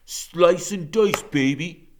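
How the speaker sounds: slow, sinister singsong taunt; menacing gang leader. A narrator's reading. Blade closing in on the boys, slow sinister taunt. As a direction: draw it out with relish. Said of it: "That's Blade".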